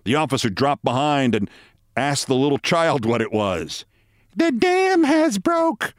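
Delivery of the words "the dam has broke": high, slow breathless gasp. A narrator's reading. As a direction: gasp it out, worn out from running. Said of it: "gasped the girl".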